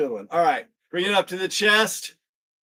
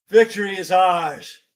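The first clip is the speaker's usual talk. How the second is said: rallying call; 4 dB louder than usual. Real, not acted. Coach rallies the class at the finish, rallying call. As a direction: proclaim it to the whole class.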